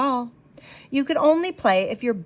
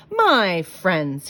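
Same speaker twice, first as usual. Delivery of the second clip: a touch louder salesman's welcome; clear, keen announcement; 2 semitones lower, 5 dB louder than usual. Acted. Stranger greeting the sad plain bellies, lightly announcing. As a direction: hail them like a showman. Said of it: "he announced in a voice clear and keen".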